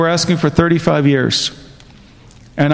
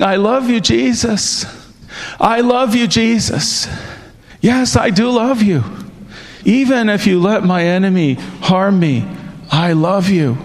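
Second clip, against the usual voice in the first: tender devotion; 3 semitones higher than usual. Retold or imitated. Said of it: "I was saying".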